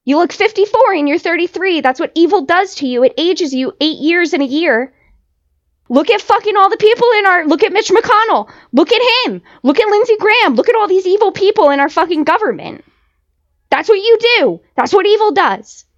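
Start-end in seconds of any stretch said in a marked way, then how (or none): 5.9-15.8 heated rant. Real, not acted. Ranting at the reality cast in a heated, raised voice. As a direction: get fired up and keep hammering it.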